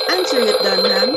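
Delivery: loud call across the house; shouted order to the maid. Acted. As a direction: call the maid sharply over the noise. Mother calls out to maid.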